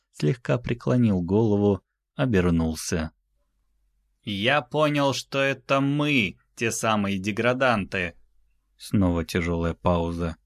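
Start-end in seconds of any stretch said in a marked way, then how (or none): 4.2-8.1 высокий, медленный голос великана; веско объяви, растягивая слова; торжественный титан. Acted. Титан говорит с землянами. (высокий голос титана, с паузами)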